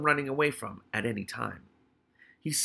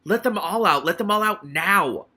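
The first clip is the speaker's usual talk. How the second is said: loud, higher furious demand; shouting; 7 semitones higher, 8 dB louder than usual. Acted. Hammond Pork shouting the order again, louder. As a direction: hammer the order home. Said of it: "he shouted up to Keith".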